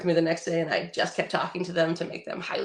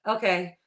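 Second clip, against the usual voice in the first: "okay" at normal pitch, falling; an ordinary, settled "okay"; neutral okay. Shown as a demonstration. Friend showing readings of a text, neutral falling okay. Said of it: "okay is the perfect one".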